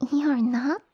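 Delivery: gasp, then rising incredulous question; shocked disbelief. Acted. Noble lady learns he doesn't know her family, shocked. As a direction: draw a scandalized breath and question it.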